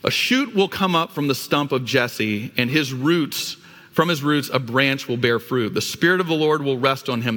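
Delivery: measured, solemn reading of the passage; scripture reading. Acted. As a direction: read the word of the Lord to the congregation. Reads Isaiah scripture.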